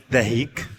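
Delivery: دهيك said slowly with a long ee, ending in k; variant pronunciation. Shown as a demonstration. Vlogger listing another pronunciation, دهيك with long ee and final k. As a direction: draw out دهيك as de-heek. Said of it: "وناس بتنطقها".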